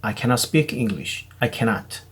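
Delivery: "cannot" with the double n merged into one soft n. Shown as a demonstration. Teacher showing students a soft, linked "I cannot". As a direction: glide "I cannot" gently, single n. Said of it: "cannot가 아니라 cannot".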